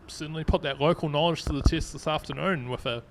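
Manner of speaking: catching breath after yelling. Real, not acted. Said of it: "I'm just trying to catch my breath here".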